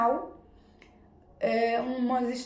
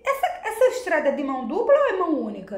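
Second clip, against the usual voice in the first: laughing question; faster than usual. Retold or imitated. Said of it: "mas eu disse".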